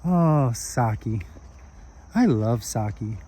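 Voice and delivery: lightly voiced friendly small man, chatting happily; friendly old-timer. Small man telling a drunk about his wife, lightly acted and fond. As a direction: chat fondly, lilting up on the happy details.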